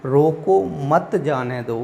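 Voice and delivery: slow, drawn-out रोको, then मत जाने दो; measured reading, रोको as its own command; break after रोको. Shown as a demonstration. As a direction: hold रोको apart from मत जाने दो. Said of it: "रोको के बाद".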